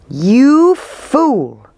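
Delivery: loud, high outraged crowd cry; angry cry. A narrator's reading. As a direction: hurl the insult at the mayor. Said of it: "they cried".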